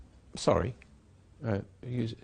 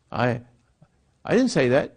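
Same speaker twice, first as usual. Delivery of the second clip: defensive denial; 5 dB louder than usual. Retold or imitated. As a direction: insist you never said it. Acted quarrel over misspoken words.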